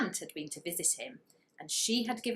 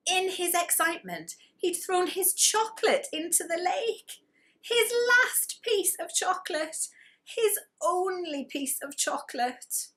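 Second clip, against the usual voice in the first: dismay; 12 semitones higher, 4 dB louder than usual. A narrator's reading. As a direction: wail over the lost chocolate. Narrator dismay over lost chocolate.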